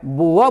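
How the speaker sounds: बुआ said as bua, r dropped; silent r. Shown as a demonstration. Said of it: "नहीं बोलना है".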